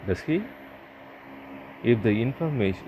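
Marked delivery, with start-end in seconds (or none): 0.1-0.4 "he" swept up high; rising question tag, high on "he"; rising intonation on "he". Shown as a demonstration. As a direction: ask it unsure, with "he" rising. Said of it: "intonation of the tag goes up".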